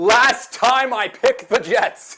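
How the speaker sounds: forceful, emphatic, very high, very loud, very slow. Retelling what Samini said in the tunnel after the game: imitating Samini saying it emphatically. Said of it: "turned to me and emphatically goes".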